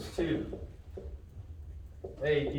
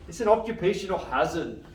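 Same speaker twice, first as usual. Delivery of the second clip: put-on higher-pitched go at a Scottish accent; attempted Scottish accent; 4 semitones higher, 4 dB louder than usual. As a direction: try out a Scottish accent from a film catchphrase. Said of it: "to speak in a Scottish accent".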